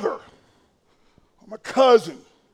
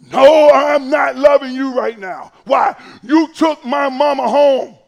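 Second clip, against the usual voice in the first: grieving protest; 7 dB louder than usual. Pretend. Grieving churchgoer talking back to God.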